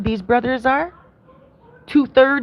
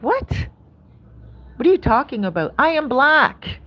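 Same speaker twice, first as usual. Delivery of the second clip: incredulous protest; 3 semitones higher than usual. Retold or imitated. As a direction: act out her shocked protest, drawing out I am black. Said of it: "I have to say it like that".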